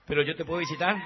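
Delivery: shouted plea after her; pleading shout. Acted. Man shouts after his leaving bride, pleading. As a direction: call out the plea loudly.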